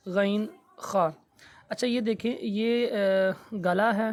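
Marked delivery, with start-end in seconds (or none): 0.1-1.1 slow, drawn-out letter names; slow recital. Shown as a demonstration. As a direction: spell the letters out slowly. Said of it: "کل ہم نے کیے تھے".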